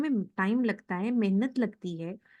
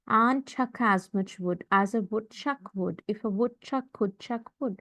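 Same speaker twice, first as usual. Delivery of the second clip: slow, measured model reading; tongue-twister recital; much slower than usual. Shown as a demonstration. Teacher models a woodchuck tongue twister for students, slow recital. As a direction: recite it slowly, every word distinct.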